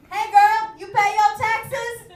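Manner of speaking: loud, high, slow pickup line; mock suitor. Imagined man pitches a pickup line to her, loud and slow. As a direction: lay on the smooth come-on.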